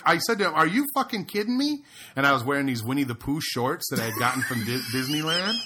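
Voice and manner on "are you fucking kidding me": mock outrage. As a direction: hurl the question back at him. Retold reply, repeated challenge.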